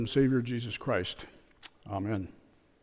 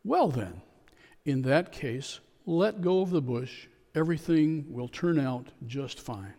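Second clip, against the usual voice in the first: calm. Retold or imitated. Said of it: "The calm voice replied".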